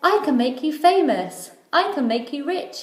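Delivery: eager showman tempting the mermaid; sly ringmaster. A narrator's reading. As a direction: sell it like a smooth-talking circus boss. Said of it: "He said".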